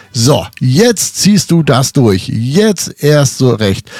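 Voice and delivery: slow, emphatic resolve; determined self-talk. Retold or imitated. Dancer urging himself on as people laugh, determined. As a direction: spur yourself on, word by word.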